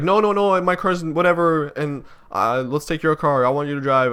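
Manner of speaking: lightly voiced mom insisting on his car; imitating mom. Mom's reply in retold argument.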